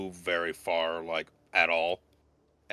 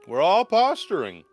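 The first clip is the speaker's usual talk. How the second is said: high, loud repeat; loud emphatic; 10 semitones higher, 8 dB louder than usual. Shown as a demonstration. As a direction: shout it the second time.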